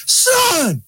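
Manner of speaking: high, bright surprised greeting; joyful cry of son. Retold or imitated. Speaker to stranger behind her, mock reunion cry. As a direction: shout it like a long-lost father. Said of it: "and I said".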